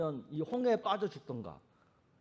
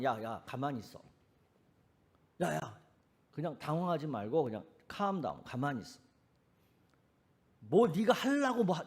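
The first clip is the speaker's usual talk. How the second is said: calm a panicked friend. Retold or imitated. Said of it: "하나님은 뭐라고 말씀". (부드럽게 달래는 목소리)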